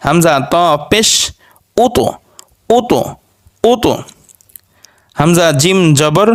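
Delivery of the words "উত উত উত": উত with the final ত released in a bounce; qalqalah bounce. Shown as a demonstration. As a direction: jolt the ত at the end of every উত. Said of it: "এগুলো একটু ধাক্কা দিয়ে পড়তে হবে".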